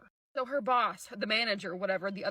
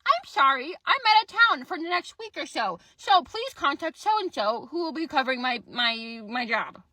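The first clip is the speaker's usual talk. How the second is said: higher, canned out-of-office message voice; automated voicemail; 3 semitones higher, 3 dB louder than usual. Retold or imitated. Recruiter's automated reply, mimicked as a higher canned message. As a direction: recite it like a recorded greeting. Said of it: "I get the automated response of".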